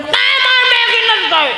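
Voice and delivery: put-on squeaky sulky child voice; whiny child. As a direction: whine the refusal like a spoilt kid. Spoilt child refusing food.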